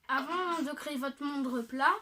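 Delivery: speaking around a wad of gum; chewing gum. Real, not acted. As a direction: mouth full of chewing gum. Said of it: "j'ai un chewing-gum dans la bouche, donc, euh, c'est difficile de parler". (la bouche pleine de chewing-gum)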